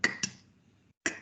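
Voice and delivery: k run into a t, with no vowel; bare k-t cluster, repeated after a pause; consonant cluster sound. Shown as a demonstration. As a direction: sound out k as the end cluster of collect. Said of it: "which make the sound k".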